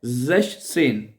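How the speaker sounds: ज़ेशसेन drawn out, ज़ेश then सेन; slow repeated ज़ेशसेन. Shown as a demonstration. Teacher repeats the tricky German sixteen, slowly. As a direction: model ज़ेशसेन slowly for the class. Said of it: "क्या कहना है?".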